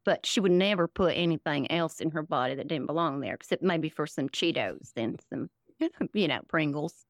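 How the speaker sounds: put-on folksy Southern accent, rambling along; Southern parody character. Comedian as her Southern MAGA character explaining herself, Southern parody voice.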